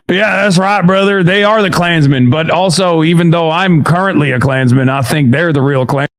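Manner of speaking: lightly put-on Klansman accent; hammed-up bigot's accent; mock Klansman accent. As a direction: play a caricatured Klansman with an accent. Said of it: "that's a damn racist accent he doing".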